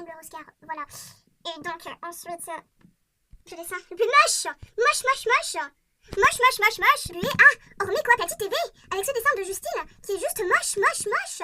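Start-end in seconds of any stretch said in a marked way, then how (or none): 3.5-11.4 loud, high chant of moche, moche, moche; loud mock disgust. Announcing the ugliest drawing, a loud mocking chant. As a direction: jeer at the ugly drawing, loud.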